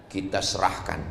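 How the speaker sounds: low, softened retold answer; calm reply. Preacher retells his answer to a friend, calm and quiet. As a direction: give the answer quietly and evenly.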